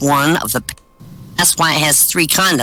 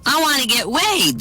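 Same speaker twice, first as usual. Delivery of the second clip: put-on high-pitched girlish voice; eager girl; 9 semitones higher than usual. Kim telling her date what she wants, eager. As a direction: say it like a keen young woman.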